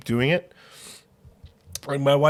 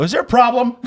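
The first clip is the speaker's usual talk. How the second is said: mock stern; 10 semitones higher, 8 dB louder than usual. Retold confrontation with wife.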